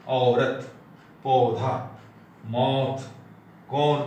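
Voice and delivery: औरत, पौधा, मौत, कौन with a long open aw; Hindi औ sound. Shown as a demonstration. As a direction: sustain the broad aw in मौत and कौन. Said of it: "इसका उच्चारण होता है". (औरत, पौधा, मौत, कौन में खुला लंबा 'ऑ')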